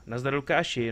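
greeting a viewer in stream chat, lively; cheerful greeting. Real, not acted. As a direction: call out "Nazdar, Lukáši" brightly to a viewer.

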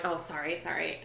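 apologetic. Retold or imitated. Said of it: "then I'm like".

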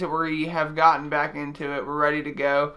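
talking with a swollen jaw. Real, not acted. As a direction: speak with the mouth barely opening. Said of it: "please excuse my voice 'cause I'm still swollen".

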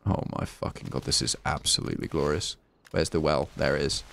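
hushed excited whisper; soft breathy delight. Real, not acted. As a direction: keep it down, thrilled. Hiding in shed, hushed.

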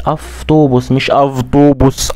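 افطوبوس with f, then with v; right versus wrong. Shown as a demonstration. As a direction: slowly contrast aftubus and avtubus. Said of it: "لا مش افطوبوس".

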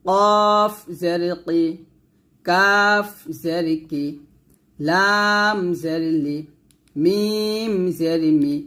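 slow, even recitation of each letter and vowel mark; measured teacher's recitation; spelling drill. Shown as a demonstration. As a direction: chant it out for pupils to repeat.

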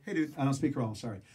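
laid-back, tossed-off brush-off; casual colloquial. Acted. Storyteller putting off an armed guard in English, casual. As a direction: toss it off like slangy English. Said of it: "I'm talking to him colloquially".

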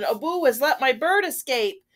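high-pitched, alarmed complaint; storybook Sultan, upset and high; dismayed cry. A narrator's reading. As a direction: cry out the bad news in dismay. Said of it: "cried the Sultan".

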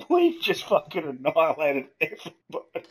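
high, breaking into laughter; laughing glee. Real, not acted. Player telling his mates they wiped everybody out, laughing. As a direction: gloat through real laughs.

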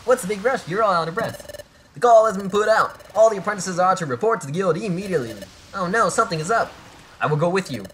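hammed-up rush of urgency; urgent game character. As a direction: call out the alarm, high and pressing. Voicing game dialogue, hurried summons to guild.

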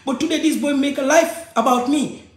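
usual speaking voice

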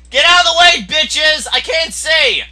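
high, loud demand; exasperated shout. Real, not acted. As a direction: yell at people blocking your view. Yelling at players blocking view.

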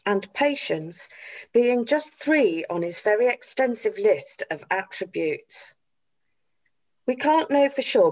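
posh, measured formal eulogy reading; posh Emmerdale barrister voice. Shown as a demonstration. Actress auditioning a dad's tribute for his family, posh barrister voice. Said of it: "in your Emmerdale voice".

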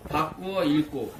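slow, careful dictation; dictating. Shown as a demonstration. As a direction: read it out slowly for the class.

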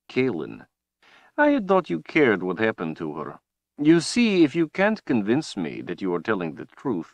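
a cold, gloating overlord; menacing villain. Acted. Villain Rahl speaks.

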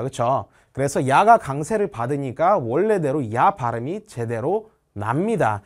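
ordinary talk, nothing marked

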